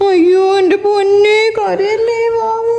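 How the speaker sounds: slow, drawn-out cooing comfort; mock consoling. Mother consoling papa after child hit him, mock consoling. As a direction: stretch out exaggerated pity.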